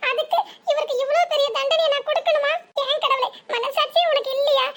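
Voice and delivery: mildly weepy, pleading with God; acted tearful lament. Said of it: "எதுக்கு இந்த பிள்ளை இப்படி அழுதுட்டு இருக்கு".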